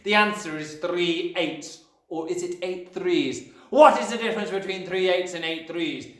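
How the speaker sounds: raging Trunchbull. A narrator's reading. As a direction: berate the child and demand his answer. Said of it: "yelled the Trunchbull".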